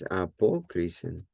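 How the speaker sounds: apokrisen stressed on the second syllable, "po"; careful Greek accent placement, apokrisen with stressed "po". Shown as a demonstration. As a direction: lean on the "po" in apokrisen. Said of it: "where's the accent".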